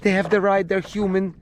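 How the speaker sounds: mock frantic mom begging don't force them; mocking his ex pleading for the kids; mother flipping out. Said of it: "the mommy flips".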